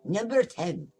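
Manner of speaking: big dramatic countdown announcement. Acted. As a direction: announce it like a movie trailer. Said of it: "we're done with the dramatic".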